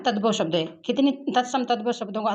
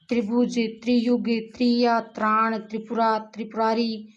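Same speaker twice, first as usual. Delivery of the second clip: त्रिपुरारी drawn out syllable by syllable, each sound clear; slow careful reading. Shown as a demonstration. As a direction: say त्रिपुरारी slowly, spelling out tri-pu-ra-ri. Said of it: "word read twice". (धीरे और साफ़ उच्चारण)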